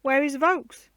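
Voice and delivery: high, loud, fearful question; gasped. A narrator's reading. Anne asking her father about the groom, fearful gasp. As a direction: gasp out the name in alarm. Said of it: "she gasped".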